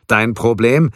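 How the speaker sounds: angry. A narrator's reading. Keller repeats angrily, louder.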